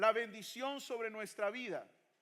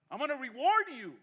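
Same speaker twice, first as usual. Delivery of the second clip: booming promise; 4 semitones higher, 10 dB louder than usual. Acted. Voicing the Lord's promise.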